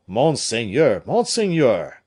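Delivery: loud, urgent calling out; breathless call. A narrator's reading. Gourville calls his master while rushing up the stairs. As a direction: call ahead while running up. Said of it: "cried Gourville, rushing up the stairs".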